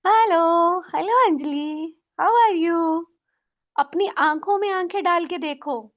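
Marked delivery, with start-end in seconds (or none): 0.1-3.0 louder, beaming greeting to the mirror; cheerful loud hello. Shown as a demonstration. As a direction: greet yourself like a long-lost friend. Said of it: "अपने style में hello बोलेंगे". (आईने में खुद को ज़ोर से, खुशी से हेलो)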